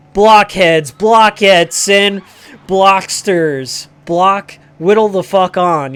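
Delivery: loud metal-singer shout, mock growled. Angry YouTuber yells at his viewers, hammed-up metal shout. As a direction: bellow it like a metal frontman opening a show. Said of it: "Does a metal voice".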